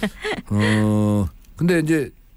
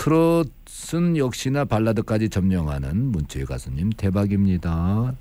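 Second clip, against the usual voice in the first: normal talking voice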